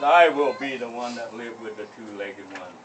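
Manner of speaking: loud bragging bear; boastful bear. Acted. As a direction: boom out the boast like a big bear.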